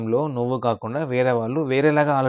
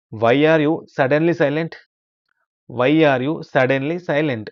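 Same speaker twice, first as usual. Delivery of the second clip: slow model reading; 2 semitones higher, 3 dB louder, much slower than usual. Shown as a demonstration. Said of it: "teacher models English sentence slowly".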